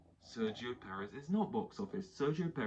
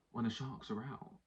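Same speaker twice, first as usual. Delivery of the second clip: hushed mock drama with long pauses; Will Buxton; 5 dB quieter than usual. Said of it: "like Will Buxton being dramatic".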